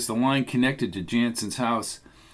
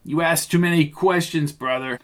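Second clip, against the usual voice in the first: mild shout; 3 semitones higher than usual. Acted. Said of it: "Rizzo shouted".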